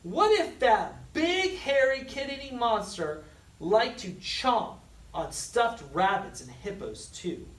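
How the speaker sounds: high, anxious rush; anxious child's fear; worried. A narrator's reading. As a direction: fret aloud. Worried thought in story.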